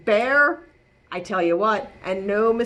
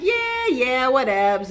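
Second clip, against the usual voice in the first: dismissive; slower than usual. Acted. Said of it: "Captain Cook replied".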